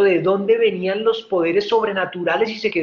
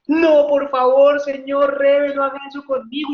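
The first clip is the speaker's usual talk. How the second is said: retold tearful begging; tearful plea; 4 semitones higher, 4 dB louder than usual. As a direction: beg him, half crying. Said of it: "y se puso a llorar el señor".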